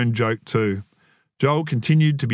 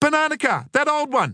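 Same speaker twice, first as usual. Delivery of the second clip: very high, shrill shouted yell. The speaker calls out a Banana Car in the spotting game, yelled. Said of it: "yelled".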